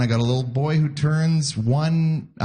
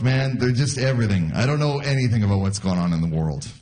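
usual speaking voice

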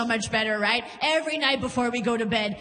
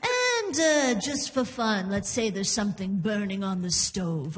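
hammed-up instructor adding one more detail; tortured acting instructor; 3 semitones lower than usual. Instructor piles onto the acting scene, tortured delivery. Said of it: "one tortured soul of an instructor".

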